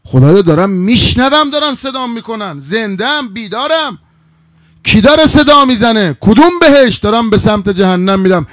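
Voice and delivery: high-pitched, agitated questioning; alarmed disbelief. Acted. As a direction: cry out in bewilderment at what you hear. Hor, shaken, questions the unseen voice.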